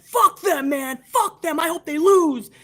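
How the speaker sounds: mock bitter fan. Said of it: "I was like".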